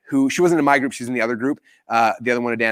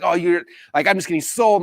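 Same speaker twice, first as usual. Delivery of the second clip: higher-pitched indignant grumble; mock aggrieved protest; upset; 4 semitones higher than usual. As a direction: complain at being pitched to. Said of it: "I was so upset".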